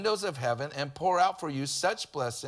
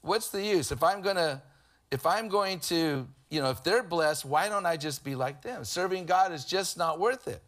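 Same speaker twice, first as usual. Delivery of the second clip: mock whiny complaint, pitched up; hammed-up grumbling, higher at the start; imitating a complainer; 3 semitones higher than usual. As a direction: whine it like a discouraged believer. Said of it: "you go".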